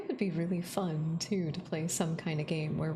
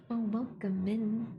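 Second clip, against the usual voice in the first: surprised gasp; 4 semitones higher than usual. Real, not acted. Gasps at new viewer.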